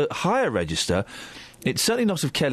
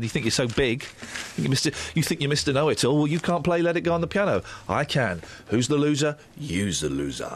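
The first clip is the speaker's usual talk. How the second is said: playground teasing; mock taunt. Teasing Colin who can't play piano, smug. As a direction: rub it in like a smug kid. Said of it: "taunting Colin after he can't play".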